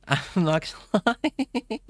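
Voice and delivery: high, helpless laughing words; real giggle overtaking the words. Real, not acted. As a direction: break up laughing while speaking. Cracking up at own accent idea.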